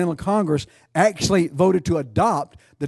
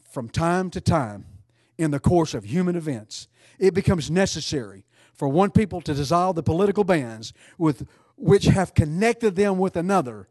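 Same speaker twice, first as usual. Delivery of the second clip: put-on measured, solemn reading of an old text; formal reading. Preacher reading the Declaration to the congregation, solemn. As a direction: read it like a founding document. Reads Declaration preamble aloud.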